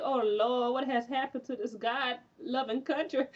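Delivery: hammed-up wail over the country; mock crying. Retelling a racist woman's horror at the TV news, mock crying. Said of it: "she was just crying like".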